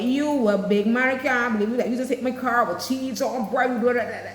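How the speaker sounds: mock angry street quarrel. Shown as a demonstration. Driver shouting at whoever hit the car, heated Creole. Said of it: "Or is it more like".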